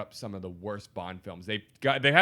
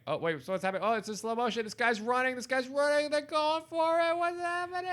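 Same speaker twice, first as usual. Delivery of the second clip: rising excitement, higher and higher; excited; 13 semitones higher than usual. Real, not acted. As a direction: call it like a stunned fan. Watching pitch invasion on TV.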